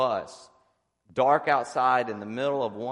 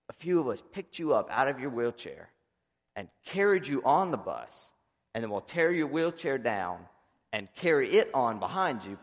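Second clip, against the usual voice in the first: higher, lightly voiced country boy; Pete; 3 semitones higher than usual. Pete proposing to carry his friend onto the bus, lightly imitated. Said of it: "he talks slow and he's a country boy".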